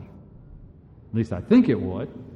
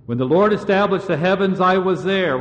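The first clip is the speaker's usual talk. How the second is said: voicing God; 5 semitones higher, 4 dB louder than usual. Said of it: "God is saying".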